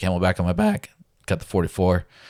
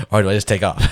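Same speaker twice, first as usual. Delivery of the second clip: louder, laughing through the words; 6 dB louder than usual. Real, not acted. Laughing to a friend about the backpack choice. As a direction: ask it while still laughing.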